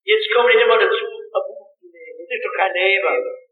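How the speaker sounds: a touch of Swabian, "nicht mal" said as "nicht mol"; retelling a woman's complaint in mild Swabian dialect; light Swabian accent. Retold or imitated. Preacher quoting a mother in a hint of Swabian accent. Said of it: "Ich war schwäbisch".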